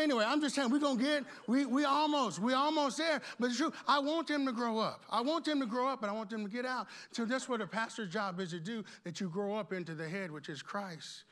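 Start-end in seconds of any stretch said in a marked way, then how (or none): 0.0-6.0 raised, forceful sermon voice; fired-up preaching. Real, not acted. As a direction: preach it out with insistent energy.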